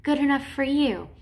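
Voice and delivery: lightly voiced dying woman; dying wife. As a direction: play the wife's last, bitter words. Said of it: "she's like".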